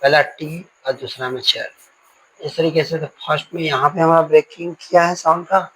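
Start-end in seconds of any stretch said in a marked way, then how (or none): 0.0-1.7 "टी" and "चर" each set apart; syllables separated. Shown as a demonstration. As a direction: count off "टी", then "चर", as separate syllables. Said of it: "syllable के according". ("टी" और "चर" को अलग-अलग गिनाते हुए)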